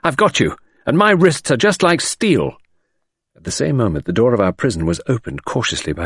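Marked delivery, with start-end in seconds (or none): 0.0-2.6 clear tones. A narrator's reading. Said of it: "in Cinderella's clear tones".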